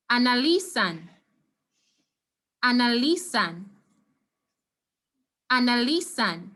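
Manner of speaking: analizan with the stress on LI, anaLIzan. Shown as a demonstration. Teacher modelling the stress for the class, clearly. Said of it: "So this word is pronounced".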